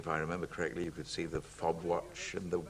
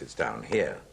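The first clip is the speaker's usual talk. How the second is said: own low voice; 6 semitones lower, 4 dB louder than usual. Shown as a demonstration. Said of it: "listen to my voice".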